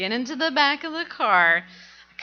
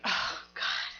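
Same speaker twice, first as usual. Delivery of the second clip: dread; 10 dB quieter than usual. Retold or imitated. Dreading punishment at home.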